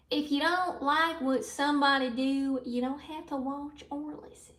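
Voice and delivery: put-on Southern accent. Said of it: "speaking in a southern accent".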